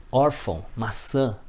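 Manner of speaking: nasal ÃO in "órfão", nasal Ã in "maçã"; vogal nasal. Shown as a demonstration. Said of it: "som nasalizador de vogais". ("órfão" e "maçã" com final nasalizado)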